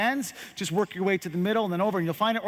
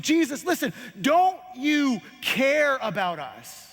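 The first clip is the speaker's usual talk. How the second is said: yell; 3 semitones higher than usual. Acted. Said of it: "Peter began to yell".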